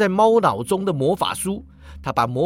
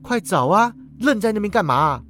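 frowning impatience; 5 semitones higher than usual. Acted. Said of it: "皱眉道".

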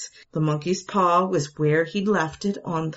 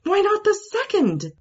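a very high pleading question; wife begging her husband; desperate plea. A narrator's reading. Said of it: "proclaimed with desperation".

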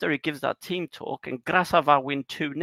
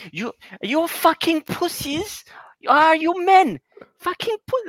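much higher, louder mock halftime yell; imitating raging coach again; 7 dB louder than usual. Coach insulting his players to fire them up, mock furious high yell. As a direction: rant at the squad like a furious manager. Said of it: "perform with his".

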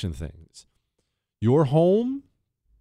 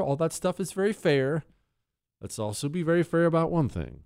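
ordinary talk

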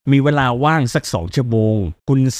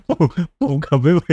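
can't stop laughing; 4 semitones higher than usual. Real, not acted.

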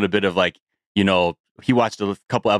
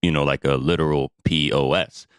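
sponsor ad read. Acted. Host reads sponsor ad.

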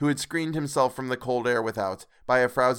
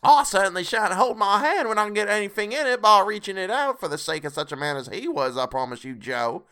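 starts high and loud, then settles; brazen charwoman; 9 semitones higher, 4 dB louder than usual. A narrator's reading. Charwoman assuring Joe she takes what she can, brazen. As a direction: answer boldly in character, easing down at the end.

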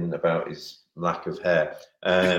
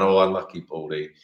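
mock teasing; 2 semitones lower than usual. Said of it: "we started laughing and going".

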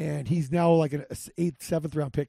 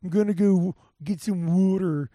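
put-on mid-Atlantic accent; 2 semitones higher, 4 dB louder than usual. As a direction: mimic a Philly-Delaware mid-Atlantic accent. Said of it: "that mid-Atlantic accent's, like, so funny where it's like".

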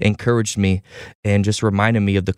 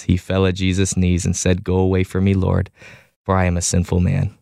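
scripture reading; 2 semitones lower than usual. Acted. Host reading scripture to the listeners, measured and reverent. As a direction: read the passage aloud with steady reverence.

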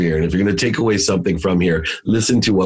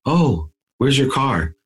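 slow, higher, gently retold question; calm voice; 6 semitones higher, slower than usual. Dad asking his sleepy daughter, calm and slow. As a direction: ask it slowly and without blame. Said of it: "with a very calm voice".

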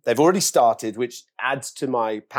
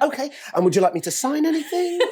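laughing mock politeness; 14 semitones higher than usual. Mock polite reply to hater.

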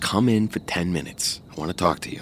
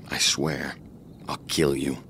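low, deadly whisper; whispered threat; 6 semitones lower, 5 dB quieter than usual. Acted. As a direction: breathe the death threat.

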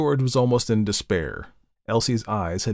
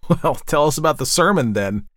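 higher, louder jovial tease; mildly amused, raised-voice prod; laughing tease; 5 semitones higher, 5 dB louder than usual. A narrator's reading. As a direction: call it out merrily, ribbing. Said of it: "laughed James".

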